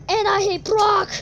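slow, loud wrestler rant; mock shout. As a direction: yell it like a hammy heel. Kid ranting as wrestler.

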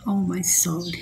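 low, soft mock lament; mock weary sigh. Streamer sighing in mock despair to her viewers. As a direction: sigh it out like a tired diva. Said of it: "English exclamation".

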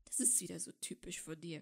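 muted, resentful growl; low growl. A narrator's reading. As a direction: grumble it low through your teeth. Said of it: "knurrte Draco".

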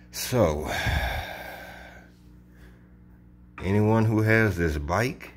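talking around a cigar; words muffled by a cigar; cigar in mouth. Real, not acted. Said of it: "I have a cigar in my mouth".

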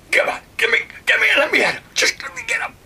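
very high, loud frantic shrieking; frantic yell. Retold or imitated. Raging guy with the knife being pulled off, frantic high yell. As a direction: scream to be let at him.

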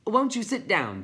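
high, loud little creature; chirping. A narrator's reading. Tiny offers Blub a seat, high loud chirp.

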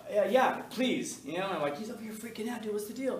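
1 relieved pleading. Retold or imitated. Relieved teacher begs nurse.

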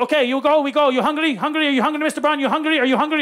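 lightly mimicked eager driver, repetitive; Mister Mamba. Tuk-tuk driver pesters hungry passenger, eager driver voice. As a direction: pepper the passenger with eager questions.

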